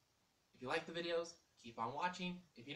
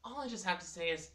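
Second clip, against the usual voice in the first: loud emphatic; 6 semitones higher, 8 dB louder than usual. Acted. Emphatic intro before teasing.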